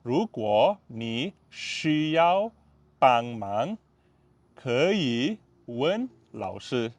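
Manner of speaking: 如果你需要帮忙 drawn out syllable by syllable; teacher spelling it out slowly; slow, clear classroom read; slow demo. Shown as a demonstration. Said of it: "Okay, slow".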